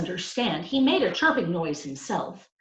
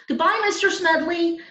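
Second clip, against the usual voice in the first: higher, louder call over the shoulder; shouted goodbye; 12 semitones higher, 6 dB louder than usual. A narrator's reading. Boy calling goodbye to the teacher while leaving. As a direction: call it out as you run.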